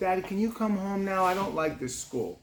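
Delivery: imitated homesick kid; pleading daughter. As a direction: plead like a little girl. Daughter voiced pleading on phone.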